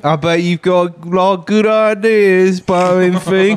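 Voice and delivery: mocking voice. Teasing Barton Fink.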